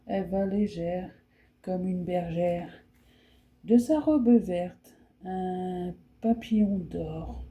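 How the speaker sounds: fairy poem recited with its repeated lines drawn out; poem reading. Acted. Reading a fairy poem to her viewers, as a recitation. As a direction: recite slowly in places, lingering on the refrains.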